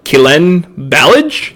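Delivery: Kalen Ballage said slowly as KAY-len BAL-ij, ending on a questioning rise; unsure pronunciation. Real, not acted. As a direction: sound out Kalen Ballage slowly, unsure how the name goes. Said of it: "Is that how you say his name?".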